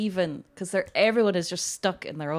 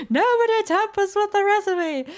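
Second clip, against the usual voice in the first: higher, louder mock officer bluster; pompous colonel voice; 14 semitones higher, 7 dB louder than usual. Quoting the film's recipe line, hammed-up officer. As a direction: puff it up like a stuffy officer. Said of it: "which also made me think of".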